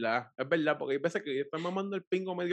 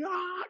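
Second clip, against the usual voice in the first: high-pitched "ah" of pain; mock pained groan; 13 semitones higher, 5 dB quieter than usual. Describing his sore jaw mid act, mock groan.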